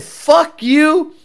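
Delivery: lightly acted angry cop; mock cussing out. Retelling a trooper cussing a driver out, mock angry. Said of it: "he cussed this dude out".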